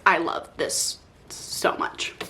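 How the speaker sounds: hushed, breathless whisper; a reader too moved for words whispers her love. Real, not acted. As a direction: breathe it out, overwhelmed. Overcome, no words.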